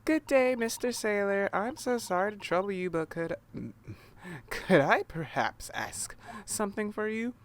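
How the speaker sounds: high, polite and apologetic; overly polite. Acted. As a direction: ask sweetly, bowing and scraping. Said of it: "let me try instead".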